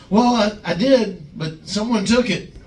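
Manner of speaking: hint of a wronged giant; mock aggrieved. Glenn tattling on rookies.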